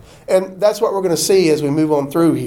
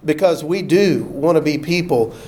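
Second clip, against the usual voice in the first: a pastor praying the church out; closing prayer; 3 semitones lower than usual. Acted. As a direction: pray over the congregation gently.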